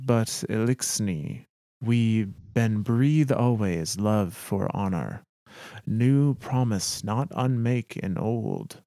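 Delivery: lightly voiced alien captain in halting English; a hint of a foreigner measuring out broken English. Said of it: "broken English".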